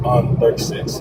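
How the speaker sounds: faint voice far from the microphone; far from mic. Real, not acted. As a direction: speak from across the room. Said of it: "I can barely hear you".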